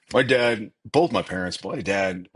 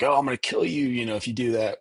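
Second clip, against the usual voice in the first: higher-pitched imitation of threatening parents; mock parental threat; 5 semitones higher, faster than usual. Mocking parents who threaten their kids, lightly mock-threatening. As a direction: lightly mimic an exasperated parent's empty threat.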